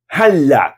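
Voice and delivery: "Hala" with a long L; held double L. Shown as a demonstration. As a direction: pause on the L of "Hala". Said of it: "Para no L".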